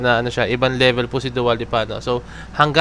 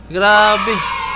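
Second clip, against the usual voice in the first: amazed shout; 6 semitones higher than usual. Real, not acted. Vlogger reacting to huge poll numbers, excited shout. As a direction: shout it like you can't believe the number.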